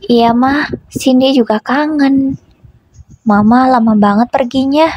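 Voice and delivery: a hint of an innocent small child. Little daughter answering her mother, lightly voiced innocent child. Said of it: "ucapnya dengan polos".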